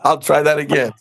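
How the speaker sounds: repeating his own line with a laugh; mock the words he said, amused; amused echo. To friends, echoing what he told the recruiter, amused.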